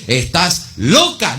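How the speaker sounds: slow, scoffing brother; a hint of a disbelieving brother; doubting brother. Brother dismisses Rhoda's news, slow and scoffing. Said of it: "un hermano le dice".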